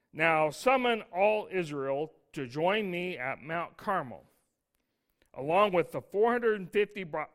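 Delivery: steady, deliberate reading of the verse; scripture reading. Acted. Preacher reads Elijah's command to Ahab, deliberate.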